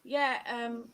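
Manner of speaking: a light put-on Indian accent. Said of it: "Like, I could just be like".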